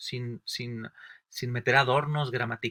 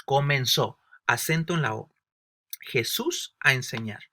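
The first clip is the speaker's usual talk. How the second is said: dictating word by word. Acted. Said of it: "Dios no dijo".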